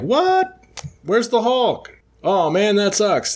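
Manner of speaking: very high, squeaky villain dismay; Gargoyle's dismay. Retold or imitated. Podcast host voicing the Gargoyle losing the Hulk: very high squeaky dismay. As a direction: shriek up in shock as the monster vanishes. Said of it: "the Gargoyle's like".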